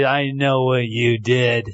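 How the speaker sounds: slow, low devil's taunt; accusing devil. Acted.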